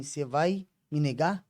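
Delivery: soft, slow, low-key question; hushed, measured challenge, retold; retold voice of God. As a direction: ask it gently and slowly, drawing it out. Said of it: "Falou desse jeito".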